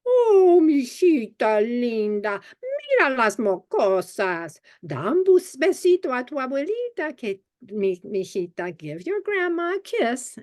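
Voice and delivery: put-on high, loving Chilean Spanish-accented grandma; grandma's Spanish accent. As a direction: coo it like a Chilean abuela greeting her granddaughter. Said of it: "heard her strange accent".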